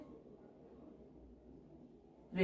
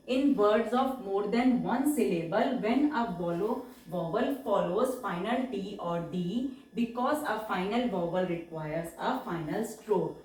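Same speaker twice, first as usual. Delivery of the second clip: slow rule dictation; much slower than usual. Shown as a demonstration. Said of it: "reads rule slowly".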